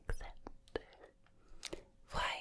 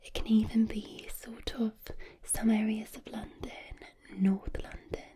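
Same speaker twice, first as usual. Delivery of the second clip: Southern English accent. Shown as a demonstration. Introducing an ASMR accent, in whispered Southern English. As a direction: whisper like a calming English rose. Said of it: "Southern English accent".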